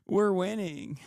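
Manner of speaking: can't keep a straight face on the boast; laughing mock triumph. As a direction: laugh through the ironic slogan. Mocking fans' triumph.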